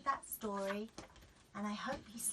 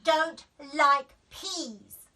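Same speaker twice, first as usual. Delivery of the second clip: slow, loud gotcha; triumphant child; 4 semitones higher, 13 dB louder, much slower than usual. A narrator's reading. Daisy explaining to mum, triumphant. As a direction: spell it out smugly. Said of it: "said Daisy".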